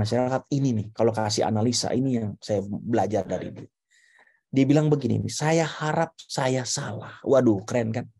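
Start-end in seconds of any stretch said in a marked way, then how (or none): 5.3-7.2 gentle doctor. Retold or imitated. Retold doctor breaking bad news gently.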